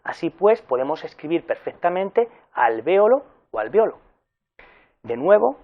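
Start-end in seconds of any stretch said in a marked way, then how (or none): 2.5-4.0 alvéolo stressed on VÉ, then alveolo stressed on O; two stress variants. Shown as a demonstration. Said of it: "el acento recae en la antepenúltima sílaba".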